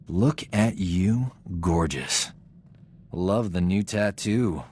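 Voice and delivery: slow, drawn-out flirting; flirty charm. Acted. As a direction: lay on the charm, taking your time. Greeting his old flame.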